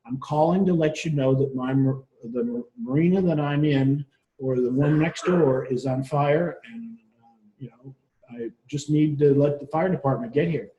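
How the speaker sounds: composed caller reporting an emergency; calm. Retold or imitated. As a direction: retell it evenly, as in ordinary conversation. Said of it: "she was as calm as you and I are right now".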